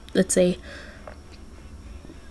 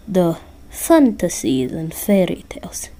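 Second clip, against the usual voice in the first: put-on lightly accented Russian Santa, matter-of-fact; bad Russian accent. Santa correcting Listener about Jack Frost, bad Russian accent. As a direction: explain it in a rough Russian accent. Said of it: "I'm terrible at doing a Russian accent".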